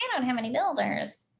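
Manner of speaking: annoying put-on voice. Imitating people whose complaints drive the speaker crazy: annoying put-on voice. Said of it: "I'm using the annoying voice because it is annoying to me".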